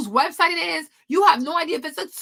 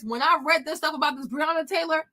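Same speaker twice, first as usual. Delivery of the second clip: ordinary talk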